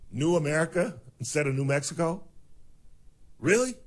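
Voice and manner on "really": high, loud incredulous really. Real, not acted. Host scoffing at the news, loud incredulous. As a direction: sound like you can't believe it. Host mocking renamed places.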